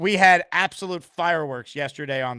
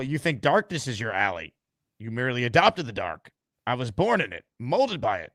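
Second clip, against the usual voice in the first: Bane impression; 5 semitones lower than usual. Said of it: "give us a little".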